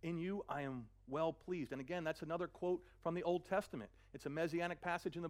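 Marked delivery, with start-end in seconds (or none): 0.0-1.7 voice of God. Acted. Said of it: "God said".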